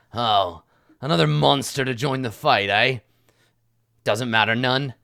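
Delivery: lightly voiced menacing bandit; snarling bandit. Bandit sizing up a new opponent in the fight, mildly snarling. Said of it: "and he snarls, and he says".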